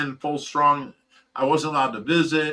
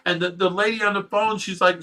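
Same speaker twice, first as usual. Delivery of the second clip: ordinary talk, nothing marked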